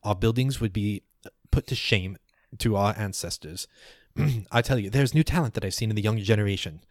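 lightly voiced old scholar, indignant; a hint of a fussy elder in debate; arguing elder. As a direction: grumble like an elder mid-argument. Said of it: "You hear one of them go".

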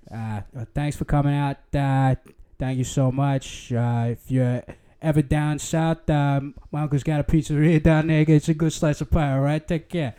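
put-on playful Boston accent farewell; lightly put-on Boston accent. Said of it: "give us a farewell in Boston accent".

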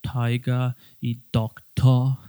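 taiga y doctor, slow, R dropped; British schwa. Shown as a demonstration. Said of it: "ellos siempre pronuncian cosas como".

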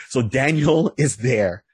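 slow, chuckling through the name Daniel; amused by his own joke, laughing mid-phrase. Real, not acted. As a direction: let a laugh break into the line. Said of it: "I know there's a joke there".

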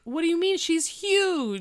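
high, loud mock disbelief; incredulous retort. Eric answering claim about the mom, incredulous retort. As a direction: blurt it out in acted astonishment.

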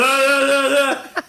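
slow, drawn-out mock Wookiee growl; hammed-up Chewie wail, high and loud; Chewbacca roar. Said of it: "The one keeps going".

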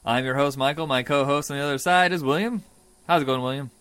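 big booming announcer hero voice; bold heroic voice. Acted. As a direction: announce it like a superhero. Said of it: "I'm using my hero voice for the rest of this episode".

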